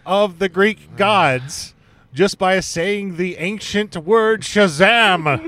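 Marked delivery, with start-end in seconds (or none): 2.1-5.5 slow, grand dramatic reading; mock epic. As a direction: build slowly to Shazam like a trailer. Dramatic build to magic word.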